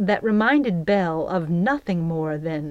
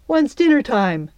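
higher-pitched, mildly anxious question; slightly worried child's query; 6 semitones higher, 4 dB louder than usual. A narrator's reading. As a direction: ask with a touch of worry.

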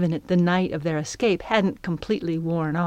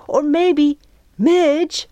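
much higher and louder, teasing in unison; chorused; 9 semitones higher, 6 dB louder, much slower than usual. Acted. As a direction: girls calling out together. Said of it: "the girls chorused".

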